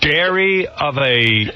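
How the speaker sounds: "Dairy" drawn out slowly like the misprint; slow mocking read. Shown as a demonstration. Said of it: "he put the word dairy".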